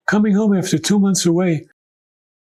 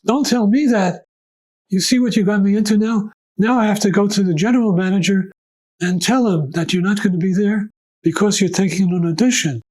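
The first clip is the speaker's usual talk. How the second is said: exasperated; 4 semitones higher than usual. Retold or imitated. Personnel manager griping at the violist, higher and exasperated. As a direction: scold him like he caused you trouble.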